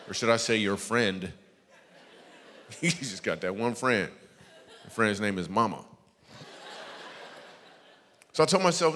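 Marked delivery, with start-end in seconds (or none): 2.8-5.8 laughing. Real, not acted. Laughing at crowd.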